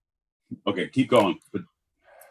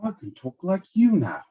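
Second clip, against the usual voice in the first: higher put-on kid voice; eager little boy; 5 semitones higher than usual. Little George copying his brothers' talk, eager child. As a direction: show off like a small boy.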